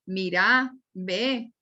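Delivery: "mira" said Cali-style as mirá, stressed on the end; Cali accent. Shown as a demonstration. Teacher imitating how caleños talk, Cali accent. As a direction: Valle del Cauca accent, stretched final syllables. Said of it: "en Cali y en el Valle es".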